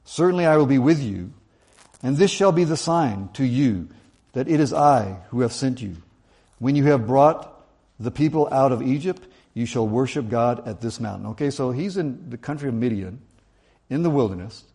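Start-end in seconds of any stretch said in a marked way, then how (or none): 0.0-11.3 scripture reading. Acted. Preacher reading God's promise to Moses aloud, solemn.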